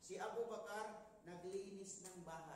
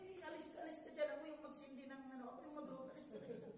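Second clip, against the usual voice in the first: higher, fast, flustered shooing away; 3 semitones higher, much faster than usual. Retold or imitated. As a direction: rush him off the stove in a startled fluster. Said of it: "nagulat yung lalaki". (taranta at nagmamadaling pagtataboy)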